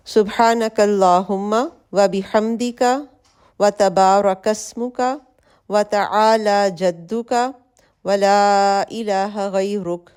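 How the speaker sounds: slow, careful prayer recitation with clear letters; recited again slowly. Shown as a demonstration. Teacher repeats the supplication slowly so students copy it. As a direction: recite each phrase deliberately, letting it settle. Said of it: "سو دوبارہ پڑھتی ہوں".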